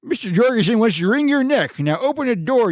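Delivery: squeaky high falsetto; high-pitched voice. Acted. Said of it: "Larry called in a high-pitched voice".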